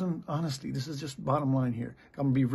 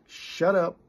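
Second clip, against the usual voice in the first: raised, louder command to be silent; sharp retold rebuke; 5 semitones higher, 5 dB louder than usual. Pastor silencing the friends who jumped on him, sharp rebuke. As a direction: cut them off firmly, voice lifted.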